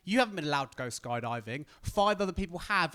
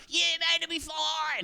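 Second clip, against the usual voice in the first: mock breezy instructor; 11 semitones higher, slower than usual. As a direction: brush off his worry. Instructor reassures.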